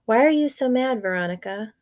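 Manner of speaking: put-on worried boy. Boy asks the babysitter.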